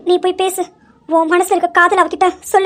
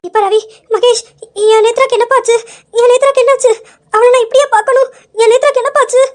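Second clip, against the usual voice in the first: tearful pleading, voice raised and breaking; crying; 5 semitones higher, faster than usual. Acted. Grandmother crying to Ravi about her granddaughter, tearful and pleading. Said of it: "அழாதீங்க".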